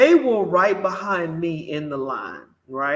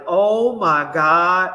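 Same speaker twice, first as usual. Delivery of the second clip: amazed cashier; 7 dB louder, slower than usual. Retold or imitated. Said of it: "And the cashier was like".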